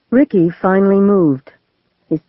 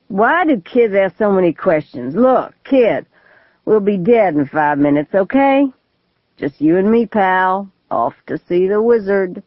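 put-on drunk crazy man; 2 semitones higher than usual. Gunman talks to boy.

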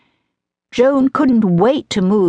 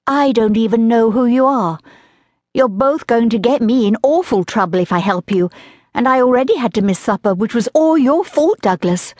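lightly voiced indignant young girl, higher; a put-upon girl scolding her brother, pitched up; young sister scolding, a touch higher; girl's voice; 4 semitones higher than usual. Joan scolds boys in girl's voice.

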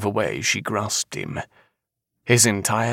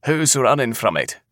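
raised-pitch retort; calling back; 6 semitones higher, 3 dB louder than usual. A narrator's reading. Man walking off from the seer, calling back. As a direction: toss it back over the shoulder. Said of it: "he called back".

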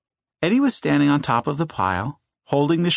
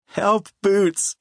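laughing call for help; 9 semitones higher than usual. A narrator's reading. Boy laughing, calling to dog.

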